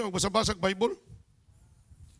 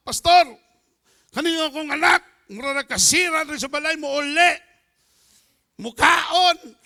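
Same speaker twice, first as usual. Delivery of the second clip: higher, louder nagging mother; complaining mother; 5 semitones higher, 7 dB louder than usual. Retold or imitated. Mother complaining to the pastor about her son, raised and loud. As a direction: plead to the pastor like an upset mom.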